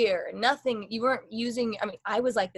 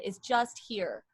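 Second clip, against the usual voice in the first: slow unresonant demo voice; down in the throat; 2 semitones lower, 3 dB quieter, much slower than usual. Shown as a demonstration. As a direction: let it sit heavily on the cords. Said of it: "that's gonna really tire you out".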